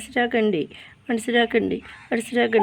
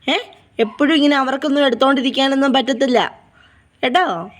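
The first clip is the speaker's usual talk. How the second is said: higher-pitched fond scolding; chiding pet talk; 4 semitones higher than usual. Real, not acted. Owner asking crying puppies why they cry, chiding pet talk. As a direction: coax and chide crying little ones.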